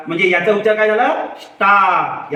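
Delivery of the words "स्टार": स्टार with a drawn-out आ; long आ sound. Shown as a demonstration. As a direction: demonstrate स्टार, holding the आ vowel open. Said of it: "त्याचा उच्चार आ असा करायचा". (स्टार मधला आ लांबवून उच्चार)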